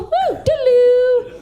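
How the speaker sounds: high drawn-out whistly whoop. Acted. Comic riffing on high noon to the crowd, high whoop. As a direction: let out a slow, high woo-doo.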